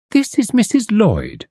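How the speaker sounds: proud slow introduction of the medium; triumphant. A narrator's reading. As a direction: present her like a prize, slowly. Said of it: "in a tone of triumph".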